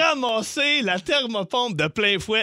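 slow, drawn-out punchline; crash told slowly. Real, not acted. Telling a friend the sled hit the heat pump, slow and emphatic. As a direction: stretch every word of the crash.

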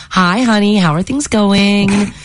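lightly sweet, drawn-out greeting; mildly sugary, slow on the question. Retold or imitated. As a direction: read it like a wife sweetly greeting her husband. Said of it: "I said in a sweet voice".

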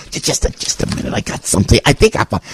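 whispered, fumbling "just a minute" stalling; hushed imitation of someone digging through a purse; mock whisper. Host mimicking a stalling churchgoer at collection, whispered.

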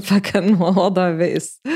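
rueful laughter at your own situation; amused laughing. Real, not acted. Dancer admitting her technical level was hopeless, amused laughing. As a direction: laugh through the words.

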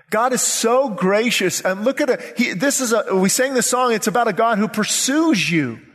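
animated, insistent sermon delivery; fervent preaching. Acted. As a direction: preach it with building conviction. Preaching with rising fervor.

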